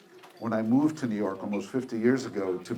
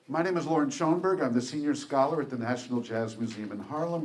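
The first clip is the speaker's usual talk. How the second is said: speaking up, louder and brighter; louder restart; 3 semitones higher than usual. Real, not acted. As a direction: project the voice for the room. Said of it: "A little louder?".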